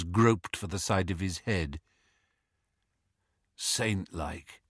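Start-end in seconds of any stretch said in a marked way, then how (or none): 3.5-4.6 low, soft murmur; weak murmur. A narrator's reading. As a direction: murmur it like someone just stirring. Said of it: "he murmured".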